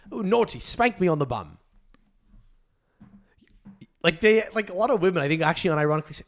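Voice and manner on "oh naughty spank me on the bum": put-on teasing, childish British accent; mock a naughty Brit. Host imitating British dirty talk, mock British accent. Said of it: "Why do the Brits talk like school children?".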